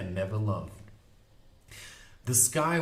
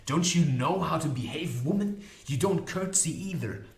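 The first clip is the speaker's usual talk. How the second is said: higher, indignant reprimand; mild scolding; 5 semitones higher than usual. Acted. Magician correcting Molly before the unicorn, mildly indignant. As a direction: chide with rising pitch.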